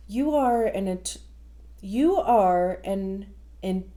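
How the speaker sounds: tongue-tied, halting read; stumbling over words. Real, not acted. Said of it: "I don't know what is happening".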